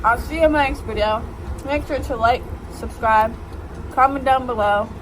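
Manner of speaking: loud over the train; shouting. Real, not acted. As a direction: yell the sign-off.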